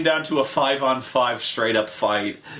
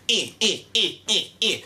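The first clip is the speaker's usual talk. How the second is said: short, repeated "eh" sounds; a string of little mock grunts; imitated straining noises; 4 semitones higher than usual. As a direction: separate jabs of noise, evenly repeated. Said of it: "we were just kinda going like".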